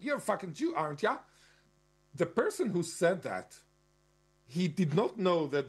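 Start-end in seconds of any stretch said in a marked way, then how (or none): 0.0-1.2 light mock Australian bogan taunt, raised pitch; imitating an ocker bogan jeer; Australian bogan accent. Man repeating the bogan's taunt, Australian accent. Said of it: "this kind of bogan accent".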